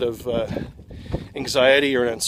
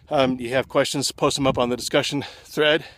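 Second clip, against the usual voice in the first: out of breath. Real, not acted. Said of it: "I can't believe I'm winded already".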